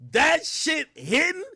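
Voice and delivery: high, loud excited shout; hyped reaction. Real, not acted. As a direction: shout it out, thrilled. Reacting to the line.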